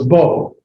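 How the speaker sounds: "bo" with a long O; O sound. Shown as a demonstration. Teacher reading holom vav, long O in "bo". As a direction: draw out "bo" on a pure O. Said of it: "The holom vav has an O sound".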